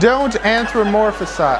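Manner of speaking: finally getting anthropomorphize out, laughing; laughing retry. Real, not acted. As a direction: push through anthropomorphize again with a laugh. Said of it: "I can't even say it".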